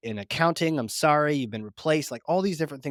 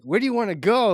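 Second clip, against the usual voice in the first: higher, louder breezy pilot question; lightly voiced friendly pilot calling over; cool pilot; 9 semitones higher, 6 dB louder than usual. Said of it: "She's like".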